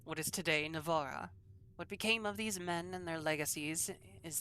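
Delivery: put-on imperfect French accent, reading aloud; lightly attempted French-accented scholar. Player reads scholar's history of Andraste's sons, attempted French accent. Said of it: "seven out of ten for your accent".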